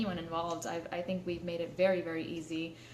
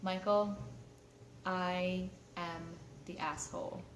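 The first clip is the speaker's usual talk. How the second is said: quiet confession; 5 dB quieter, slower than usual. Retold or imitated. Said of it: "just like this".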